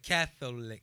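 "Catholic" with an audible middle O, quoting him; imitating the pronounced O. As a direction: mimic "Catholic" with every syllable sounded. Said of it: "He pronounced the O in Catholic".

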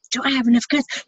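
same question pitched well up, rising. Retold or imitated. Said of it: "I'm arguing with myself".

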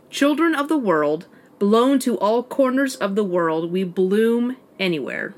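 slow, measured motto recitation; reciting a motto. Acted. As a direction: recite it slowly, phrase by phrase. Reciting the military brats motto.

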